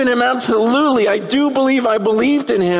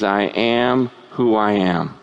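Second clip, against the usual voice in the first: much lower, weighty divine voice; voice of God; 13 semitones lower, slower than usual. Acted. Preacher voicing God answering Moses, low and grave. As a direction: let God's name land low and grave.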